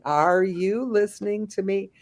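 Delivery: put-on mildly patronising as if to a child; condescending. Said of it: "I get real condescending".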